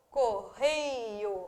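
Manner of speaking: "correio" stretched on REI, falling low; penultimate stress. Shown as a demonstration. Teacher showing another paroxytone, stressing REI in "correio". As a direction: lean long on the middle of "correio". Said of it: "nova paroxítona também".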